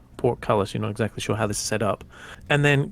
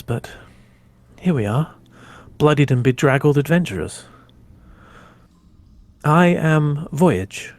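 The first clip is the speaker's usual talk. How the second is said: casual; 4 dB louder than usual. Acted. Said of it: "leans on it very casually and just says".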